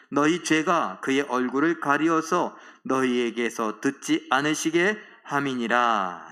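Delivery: measured, solemn recitation, slowing at the close; scripture reading. Acted. Preacher leading congregation in Isaiah verse, reciting. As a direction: read it out evenly for all to follow.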